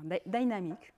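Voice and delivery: "dynamique" said the English way; English-accented "dynamique", opening on an "eye" vowel. Shown as a demonstration. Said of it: "avec l'accent anglais".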